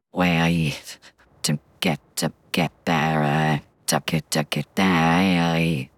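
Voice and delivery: straining for her very highest voice. Shown as a demonstration. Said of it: "the absolute highest voice that I can do".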